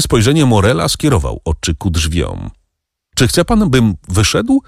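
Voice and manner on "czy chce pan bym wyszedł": a high, pained plea; a pleading, hurt cry. A narrator's reading. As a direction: cry out in anguish to the old man. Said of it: "zawołał boleśnie Morel".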